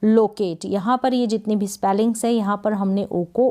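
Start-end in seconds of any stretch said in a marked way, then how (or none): 0.0-0.6 लोकेट with a lengthened final ट; लोकेट, last ट held, no vowel after it; long final T. Shown as a demonstration. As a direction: draw out the closing ट in लोकेट. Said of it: "टी का उच्चारण यहाँ पर लंबा है".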